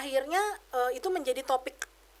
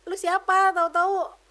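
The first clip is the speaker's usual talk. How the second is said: much higher and louder, slowing on the slap; retold outburst, raised and higher; furious retort; 6 semitones higher, 5 dB louder, slower than usual. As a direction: demand who she thinks she is. Venting at abusive sister-in-law.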